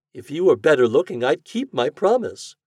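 high, loud, disdainful lady's voice; cutting rejection in a high feminine character voice; haughty lady. A narrator's reading. Haughty lady answers her suitor.

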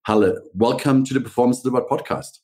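upbeat pitch-lifted scripted show opening; podcast host intro. Real, not acted. Host welcoming listeners and introducing the branding guest, presenter voice.

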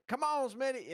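high-pitched imitated coaxing; retold pleading. Friend urging Smitty to leave, high mock pleading.

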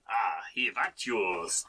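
put-on French accent, dropped H; retry it as a hammed-up Frenchman. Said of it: "say that in a French accent".

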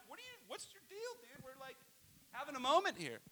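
high, very soft scolding; urgent hushed parental reproach; hushed chiding. Retold or imitated. Father to son interrupting a moment, hushed chiding.

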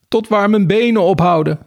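high-pitched shouted answer; calling out. A narrator's reading. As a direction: call back high from the mud. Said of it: "riep Beertje". (hoog terugroepend)

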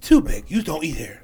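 imitated Chinese-accented English; mock Chinese accent. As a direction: quote them in a put-on Chinese accent. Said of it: "I don't supposed to do the accent".

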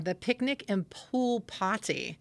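slow, drawn-out Chicago vowels; Chicago accent. Real, not acted. Reading out a local event name in a Chicago accent. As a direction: let a Chicago accent slip into it. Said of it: "bringing out your Chicago accent".

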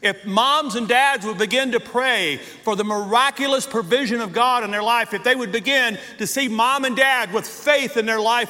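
driving, emphatic preacher's cadence; impassioned preaching. Real, not acted. Preacher urging parents to pray for miracles, impassioned. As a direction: preach it in forceful, punched repeated phrases.

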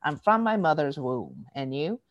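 deadpan retort, dropping at the end; understated weary comeback; fed up. Retold or imitated. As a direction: answer like you're done with this. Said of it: "I am really done with this conversation".

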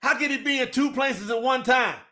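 incredulous preacher's cry; indignant shout. Real, not acted. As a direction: shout it out at the doubters. Preacher arguing with opponents' view.

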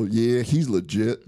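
slow mimicked Little Rock heckler; imitated Arkansas accent. Buddy behind the fence approving an ace, imitated Arkansas accent. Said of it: "here's one of the guys go".

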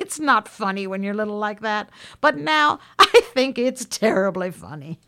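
laughing through the words, pitch lifted; amused laughter. Real, not acted. Storyteller recalling sneaking out as a child, laughing. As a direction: chuckle while looking back. Laughing at her own memory.

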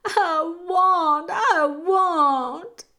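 high, loud repeated wail; acted sobbing, full voice. A narrator's reading. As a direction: wail it twice, drawn out. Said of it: "Meg sobbed".

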